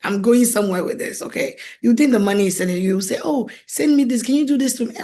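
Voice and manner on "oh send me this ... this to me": higher-pitched mimicry of someone asking; imitated pleading request. People who think she has money ask her, imitated pleading. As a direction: play the eager favour-seeker lightly.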